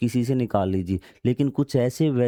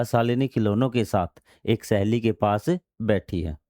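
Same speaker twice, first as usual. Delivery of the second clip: शालिनी खिलौनों के साथ, then a clear break; pause after साथ. Shown as a demonstration. Teacher showing where the comma falls, pause after साथ. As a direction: stop briefly after साथ before एक सहेली. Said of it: "हमें यहाँ रुकना पड़ेगा".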